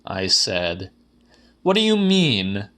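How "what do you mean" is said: raised, higher-pitched man's voice; higher voice for the friend; Quisser's voice. A narrator's reading. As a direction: lift into the other man's voice, puzzled. Narrator voices Quisser's reply.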